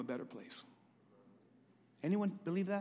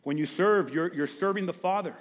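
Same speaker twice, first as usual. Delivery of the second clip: talking around ice; mouth full; 4 dB louder than usual. Real, not acted. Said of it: "I'm talking with ice in my mouth".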